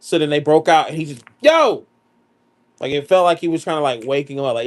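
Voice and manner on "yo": high, sudden wake-up yell; calling out sharply. Retold or imitated. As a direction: act out a wrestler's "yo" to rouse his opponent. Acting out wrestler's wake-up call.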